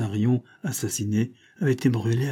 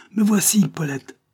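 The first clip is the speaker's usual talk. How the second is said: high, loud call to her; shouted answer; 10 semitones higher, 6 dB louder than usual. A narrator's reading. Lieutenant answering the captive girl, shouted call. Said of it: "il cria".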